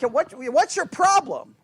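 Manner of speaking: mildly exasperated parent; frustrated. Acted. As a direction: let a touch of exasperation stretch it. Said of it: "gotten frustrated with your kids".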